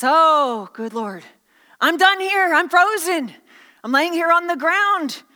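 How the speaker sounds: a hint of a hammed-up bird in despair; lamenting little bird. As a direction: groan out a mock-dramatic complaint. Voices the freezing, dying bird.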